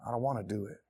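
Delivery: low, soft, worn-out mumble; defeated, voice sunk low; giving up. Acted. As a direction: act exhausted and ready to quit. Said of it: "you just wanna give up".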